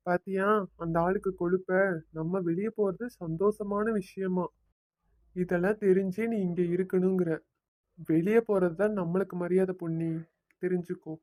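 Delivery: softly spoken resentful aside. Acted. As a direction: keep it down, for your wife only. Husband's aside to his wife Ponni.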